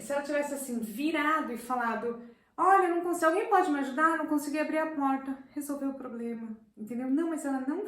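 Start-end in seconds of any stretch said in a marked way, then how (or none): 2.6-5.4 put-on higher, louder plea of a stuck little girl; child asking for help. Teacher voices the child who could not open the door, pleading loudly for help. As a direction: call out for help like a helpless child.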